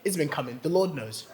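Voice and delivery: hushed smug certainty; smug inner confidence. Retold or imitated. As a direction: whisper it to yourself like it's already yours. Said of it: "I was like".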